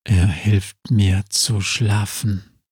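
a weary zombie speaking slowly and low. Acted. Zombie speaks into the witch's mind, slow and low. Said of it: "sagt Ernest".

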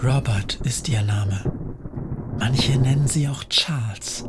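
hushed, secretive whisper; spooky whispered warning. Acted. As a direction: whisper the names like a curse. Witch names the cursed doll.

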